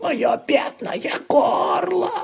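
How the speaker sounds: high, slow hammed-up hoarse wail; mock croak. Laban faking a sore throat, slow hoarse hammed-up wail. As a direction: croak it out like a fake invalid. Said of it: "И он прохрипел".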